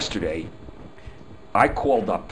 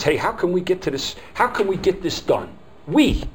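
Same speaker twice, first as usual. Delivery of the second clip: much higher and louder, upbeat; eager cooperative; 9 semitones higher, 4 dB louder than usual. Retold or imitated. Speaker voicing a friendly helper to customers, bright eager pitch. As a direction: sell the togetherness with energy.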